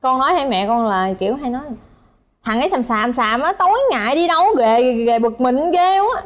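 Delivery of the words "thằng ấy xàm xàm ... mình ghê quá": imitated grumble, rising then dragged out; annoyed nagging. Shown as a demonstration. Wife shows how she grumbles at husband, annoyed nagging. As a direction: nag him in mock exasperation, stretching the ending. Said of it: "là kiểu hay nói như vậy".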